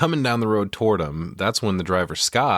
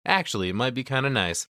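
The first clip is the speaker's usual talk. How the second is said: put-on high cutesy girl voice; 6 semitones higher than usual. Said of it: "she's like".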